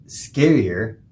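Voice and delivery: word broken by a hiccup. Real, not acted. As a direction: squeeze it out between hiccups. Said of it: "sorry, I'm hiccuping here".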